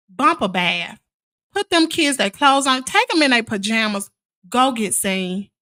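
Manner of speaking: bossy order. Retold or imitated. Ordering sick sister to doctor.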